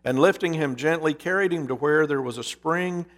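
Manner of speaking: storyteller reading a parable, measured and vivid; story narration. A narrator's reading. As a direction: tell the fable as from the pulpit. Preacher reads a parable aloud.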